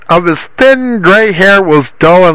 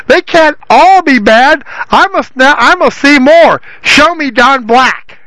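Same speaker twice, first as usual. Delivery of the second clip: eager Tiny Tom; 6 semitones higher than usual. Acted. Tiny Tom begging the gypsy.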